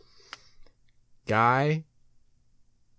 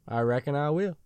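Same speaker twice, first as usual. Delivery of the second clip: Forrest Gump-like drawl; 5 dB quieter than usual. Acted. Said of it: "Now I sound like Forrest Gump".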